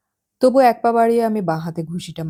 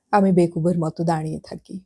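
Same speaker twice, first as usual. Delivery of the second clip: ordinary delivery, nothing marked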